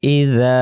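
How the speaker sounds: ইযা with a soft, light z; soft z sound. Shown as a demonstration. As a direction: say ইযা gently, the z soft not hard. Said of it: "নরম করে আওয়াজটা হবে". (নরম করে ইযা)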